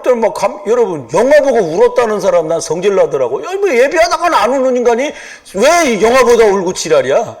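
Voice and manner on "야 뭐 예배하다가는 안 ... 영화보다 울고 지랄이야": a touch of real annoyance, cursing; preacher venting at people who cry at films, mildly angry; mock irritated rant. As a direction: grumble at the crying moviegoers. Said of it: "죄송합니다, 욕해서".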